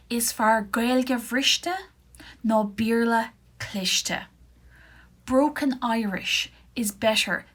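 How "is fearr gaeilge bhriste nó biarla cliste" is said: slow model read. Shown as a demonstration. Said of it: "this is my favourite one".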